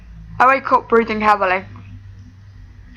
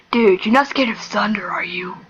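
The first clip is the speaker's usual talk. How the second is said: whispering. Acted. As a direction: whisper it, half teasing. Jeff teases Ben in bed.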